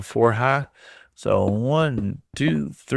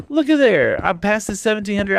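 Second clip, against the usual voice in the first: much higher, delighted surprise; excited; 8 semitones higher than usual. Real, not acted. Streamer notices his like count, delighted. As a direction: marvel at the number. Likes pass a milestone.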